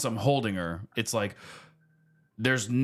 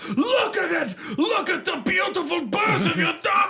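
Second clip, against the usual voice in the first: put-on Hispanic accent; 3 dB louder than usual. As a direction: shriek it as a hammed-up Hispanic midwife. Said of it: "spicy little Hispanic lady".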